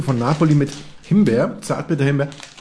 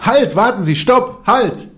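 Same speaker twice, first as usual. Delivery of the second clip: loud retold call to stop, higher; 6 semitones higher, 4 dB louder, slower than usual. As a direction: call after him to wait. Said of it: "es war eigentlich nur zurückgerufen".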